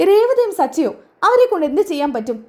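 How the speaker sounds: surprised friend, doubting the plan; incredulous. Acted. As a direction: scoff at the idea in disbelief.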